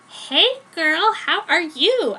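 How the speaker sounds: high, loud squeal of hello; excited greeting. Acted. Joan running up to hug Jenny, high excited squeal. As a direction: gush over your best friend, hammed-up.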